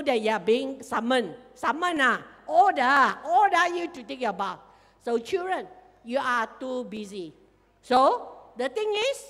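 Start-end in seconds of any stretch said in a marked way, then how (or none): none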